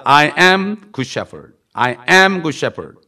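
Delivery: very slow, loud, word by word; drawn-out preaching of "I am good shepherd"; slow intoned scripture. Acted. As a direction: lay each word down like a proclamation.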